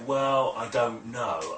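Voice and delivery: slow, drawn-out doubt, mimicked; hesitant client. Hypnotist imitating a client unsure of their imagination, hesitant. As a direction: stretch the words out, unsure. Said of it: "If they say".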